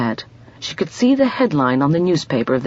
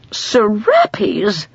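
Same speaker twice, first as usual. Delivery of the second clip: a gasp of delighted surprise; breathless little gasp of wonder; 6 semitones higher than usual. A narrator's reading. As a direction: catch the breath on the word. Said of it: "she gasped".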